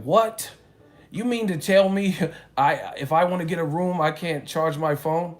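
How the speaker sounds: high, loud incredulous outburst; hammed-up shock at the desk clerk; mock disbelief. Retold guy shocked at hotel desk.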